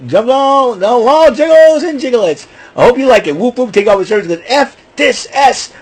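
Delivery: high, hammed-up wrestler promo voice; mocking impression. Vlogger mocking Wheeler Yuta's promo, high and hammed-up. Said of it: "The one that does".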